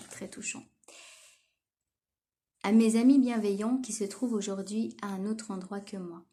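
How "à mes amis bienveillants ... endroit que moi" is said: lightly measured read-aloud of a poem. Acted. Reading a friend's poem to kind friends, gently declaimed. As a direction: read the opening out like a heartfelt address.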